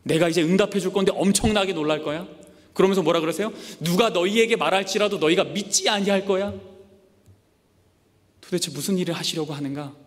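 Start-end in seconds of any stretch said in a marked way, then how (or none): 0.0-6.5 mild voice of God. Acted. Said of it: "응답하시는데".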